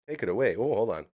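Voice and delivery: ordinary talk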